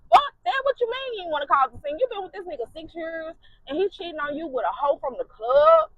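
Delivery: friend blowing up about the cheating; furious friend. Retold or imitated.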